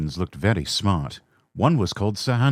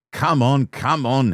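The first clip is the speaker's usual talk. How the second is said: puffing with effort; 6 semitones higher, 4 dB louder, slower than usual. Acted. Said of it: "he puffed as his wheels slipped".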